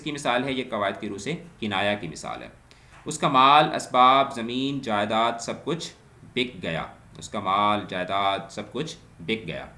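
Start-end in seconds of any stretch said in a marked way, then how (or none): 3.0-6.8 reads the example out louder, with a rise on کچھ; loud example reading. Shown as a demonstration. Teacher reading an example sentence to students, louder. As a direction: announce the example sentence to the class.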